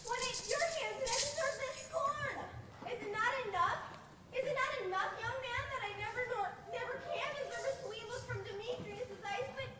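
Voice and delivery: loud, rising wounded protest; hurt indignant outburst. Acted. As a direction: lash back at the mockery. Helena hurt by mockery.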